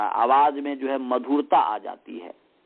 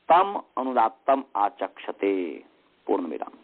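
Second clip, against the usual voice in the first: level monotone dictation, punctuation spoken with a falling tone; measured, chant-like dictation on one note. Shown as a demonstration. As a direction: read it out evenly for students to write down. Repeats the dictation for students.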